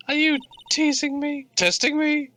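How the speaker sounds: high, rising taunt. Acted. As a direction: challenge them playfully. Voicing a challenging character.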